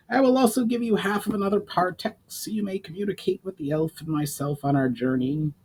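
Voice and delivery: goblin voice. A narrator's reading. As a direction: pitch it up like a goblin emissary offering help. Goblin explains the stones.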